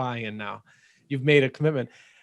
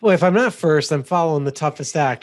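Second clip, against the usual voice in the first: playful loud lament; 4 semitones higher, 8 dB louder than usual. Real, not acted. Jokey complaint after a tough act.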